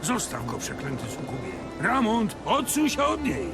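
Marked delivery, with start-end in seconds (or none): 1.8-3.5 shouting. Acted. Warns Ramont away.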